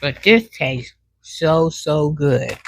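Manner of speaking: slow, talking with mouth full. Real, not acted. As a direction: savour it through a mouthful. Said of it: "I'm talking with my mouth full".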